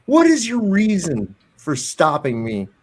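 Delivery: hammed-up indignant questioning; mock confrontation. Commentator acting out confronting the officer, incredulous.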